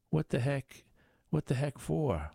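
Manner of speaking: high, disbelieving outburst; incredulous. Acted. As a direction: throw up your hands at the card. Card player protests losing hand.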